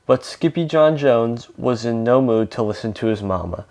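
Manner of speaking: lively read-aloud with lightly acted dialogue; storybook reading with emphatic openings; picture-book narration. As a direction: read a story to children, animated.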